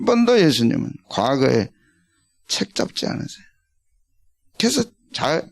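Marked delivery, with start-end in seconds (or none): 2.5-3.4 hushed whisper. Real, not acted. Sermon, sudden hushed line.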